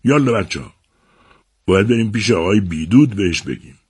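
mild rallying shout; lightly acted class monitor's call to move. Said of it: "مارتین مبصر فریاد زد".

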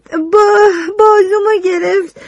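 crying, voice breaking; tearful. Acted. Witness girl recounting the attack, crying. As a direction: choke on the memory.

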